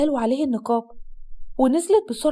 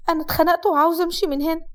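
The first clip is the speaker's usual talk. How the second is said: higher-pitched, fed-up bride; a touch of sorrow, pitched up; sad; 4 semitones higher than usual. Acted. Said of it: "بصت له بحزن واتنهدت وقالت". (بحزن وضيق)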